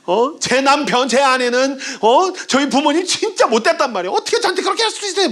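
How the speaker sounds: high, rising mock protest from an upset congregant; hammed-up outraged complaining; indignant outburst. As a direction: act out making a scene to the pastor, fast and high. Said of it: "막 난리 칠 겁니다".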